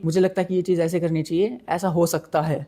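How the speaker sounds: tentative, hedged suggestion; unsure hedging. Shown as a demonstration. Demoing to students the weak way to speak, hesitant. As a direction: sound unsure of your own idea. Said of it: "ऐसे नहीं बोलना कि तुम बोलो".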